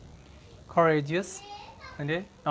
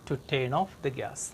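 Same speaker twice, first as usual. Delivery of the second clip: slow model sentence; much slower than usual. Shown as a demonstration. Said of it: "teacher reads model sentence".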